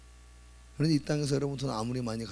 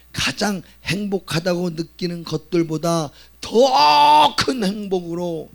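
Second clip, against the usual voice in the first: louder, higher, slow voice breaking with emotion; tearful preaching; 7 semitones higher, 10 dB louder, slower than usual. Real, not acted. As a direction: plead through tears. Sermon climax, emotional. (눈물 어린 간절한 설교)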